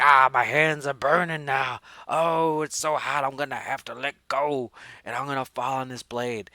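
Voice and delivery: hammed-up wail, loud at first then easing; mock agony. Super hanging from the hot pipe, in mock agony. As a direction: play a badly suffering victim, over the top.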